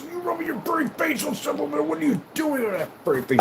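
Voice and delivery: high cooing pet voice. Real, not acted. Talking to his cat.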